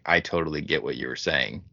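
a hint of a country woman's deep drawl. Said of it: "talking in a really deep draw".

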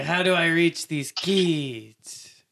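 1 mock teacher. Mocking a teacher's cliché.

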